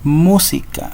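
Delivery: Música with a high first syllable, MÚ-si-ca; stress on MU. Shown as a demonstration. Teacher showing pupils the tonic syllable, Música stressed on MU. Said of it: "en la sílaba mu".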